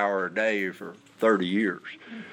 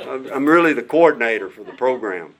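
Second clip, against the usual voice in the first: laughing; 3 semitones higher, 5 dB louder than usual. Real, not acted. Still laughing after joke.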